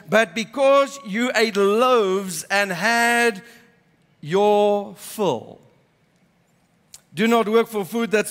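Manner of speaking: measured Bible reading to the congregation; scripture reading. Acted. Pastor reading John to the congregation, measured reading. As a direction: read the gospel passage with steady weight. Reads scripture passage aloud.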